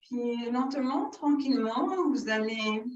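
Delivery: measured yoga-teacher guidance with long pauses; unhurried breathing-exercise guidance; guided yoga instruction. Real, not acted. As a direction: lead the breathing exercise phrase by phrase, drawing out the key words.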